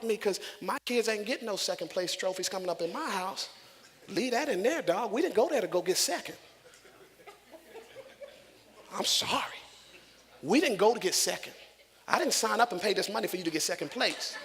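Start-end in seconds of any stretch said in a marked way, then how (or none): 4.1-14.3 louder, punchy insistence; emphatic preaching. Real, not acted. Preacher tells the church he refuses second place, loudly. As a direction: hammer it home to the church.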